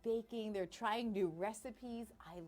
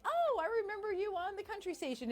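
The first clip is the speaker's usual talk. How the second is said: imitating listeners; 11 semitones higher, 4 dB louder than usual. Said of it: "I know a lot of you have been like".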